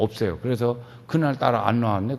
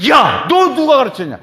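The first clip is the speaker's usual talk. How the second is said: delighted praise; 5 semitones higher, 5 dB louder than usual. Retold or imitated. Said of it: "이렇게 예수님이 칭찬했어요".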